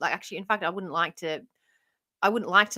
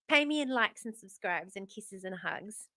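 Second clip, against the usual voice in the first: mock sleazy; 2 semitones lower, 8 dB quieter than usual. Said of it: "that felt a bit sleazy".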